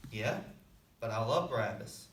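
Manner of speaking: low, calm reply; gentle insistence. Acted. God answering a second objection, calmly loving.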